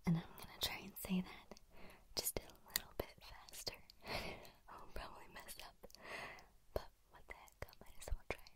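gentle breathy whisper; soft whisper. Real, not acted. ASMR host whispering an intro to her viewers. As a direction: keep it all in a hush.

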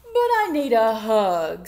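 big storybook whine; pleading wail. A narrator's reading. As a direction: wail it as the upset little bear. Upset bear pleading in story.

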